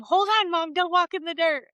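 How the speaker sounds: put-on high toddler voice, bossy and earnest; little girl with a big broom ordering mom; imitating a toddler. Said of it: "this little two and a half year old little girl".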